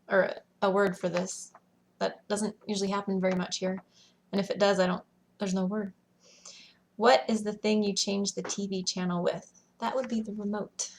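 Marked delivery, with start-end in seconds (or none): 5.4-5.9 whispered aside. Real, not acted. Vlogger admitting she has no word, whispering. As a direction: drop to a breathy whisper, unsure.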